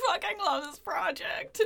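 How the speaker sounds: mock Irish brogue; a light Irish lilt, hammed up; Irish accent. Imitating Churchill in a bad Irish accent. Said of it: "He's not Irish".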